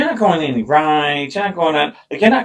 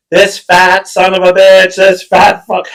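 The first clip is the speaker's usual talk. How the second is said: retold yelling; 4 semitones higher, 5 dB louder, slower than usual. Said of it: "I'm screaming at Ryan".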